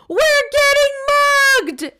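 high, slow panicked yell; mock yell. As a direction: yell it like you're being robbed. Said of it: "he would yell".

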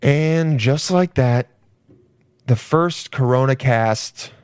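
slow, drawn-out show wrap-up; slow, self-conscious announcer-style delivery; affected sign-off voice. Real, not acted. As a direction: stretch it out with pauses like a grand outro. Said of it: "Why am I talking like this".

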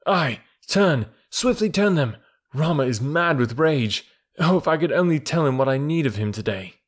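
brief the wolf with quick command; young leader, keen and urgent; lightly voiced Mowgli.

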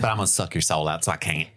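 regretful Southern ghoul; Southern Dementor. Pretend. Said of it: "I love the Southern Dementor bit".

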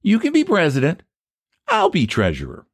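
high-pitched, knowing echo; pointed counter-offer. Acted. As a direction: hand his own offer right back. Rival turns the offer back.

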